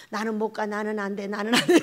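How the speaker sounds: low monotone mock moaning; lightly acted defeatist; mimicked complainer. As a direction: imitate someone giving up, in a low voice.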